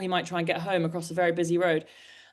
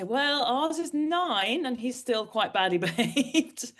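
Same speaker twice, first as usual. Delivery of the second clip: slow, higher-pitched imitated owner; other dog owner; 5 semitones higher, slower than usual. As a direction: draw out a rueful answer as another owner. Voices other owners' rueful answer.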